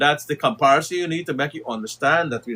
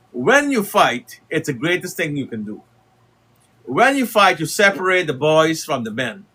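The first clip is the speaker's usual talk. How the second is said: rousing preaching. Acted. Urging Guyanese listeners to fight, in rousing preacher style. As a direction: preach it like a rally speech. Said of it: "So let us talk a little bit like that".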